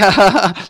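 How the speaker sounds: short mimicked chuckle; imitated laugh. Husband imitating his wife laughing at him, mock chuckle. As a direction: mimic someone laughing at you.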